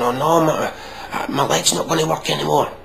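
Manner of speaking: high, overdone panic over a stubbed toe; mock hysterical whine. Mocking himself panicking over a stubbed toe, high whine. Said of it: "getting all hyper and going".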